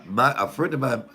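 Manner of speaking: usual speaking voice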